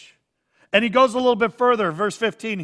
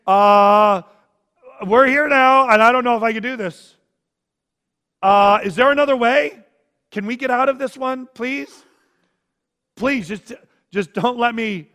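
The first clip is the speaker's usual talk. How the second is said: louder, higher desperate begging; agonized pleading; 3 semitones higher, 7 dB louder than usual. Acted. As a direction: plead for a way out, in agony. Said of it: "Do you hear the agony in his voice?".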